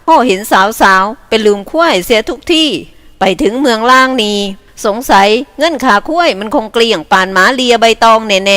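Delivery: lightly voiced teasing villager; character voice. Young herder teasing a friend, lightly voiced. Character banter in Isan story.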